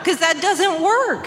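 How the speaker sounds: exasperated. Real, not acted. Exasperated at the cure.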